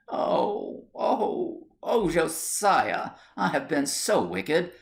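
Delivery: breathy oh oh, then a slow tearful Josiah; on the edge of tears, confessing. Acted. Wife confesses to husband, a mild tearful break. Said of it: "bursting into tears".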